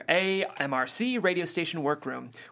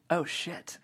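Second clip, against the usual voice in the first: muttered curse; 6 dB quieter than usual. Retold or imitated. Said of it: "the way most of us say".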